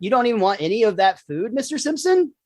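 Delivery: incredulous question rising high at the end; lightly voiced researcher, lifting sharply on the name; quoted researcher. Researchers asking Homer about the food, lightly acted amazement. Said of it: "they're like".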